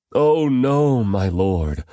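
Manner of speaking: high-pitched, dismayed plea; begging. A narrator's reading. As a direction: protest pleadingly, starting high and easing down. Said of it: "Lot begged".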